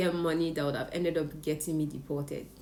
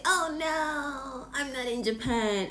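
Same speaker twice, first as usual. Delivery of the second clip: sheepish admission; 8 semitones higher, slower than usual. Retold or imitated. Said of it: "And I had to say".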